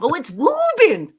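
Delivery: mock the local way of saying Woburn; imitating Boston pronunciation. Streamer quotes the chat's correction with Boston vowels. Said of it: "He says it's Woobin".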